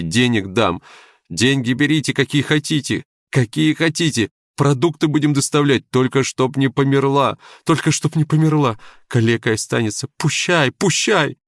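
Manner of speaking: from urgent plea building to a high, loud shout; shouting at the ceiling. Acted. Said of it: "кричал он в потолок".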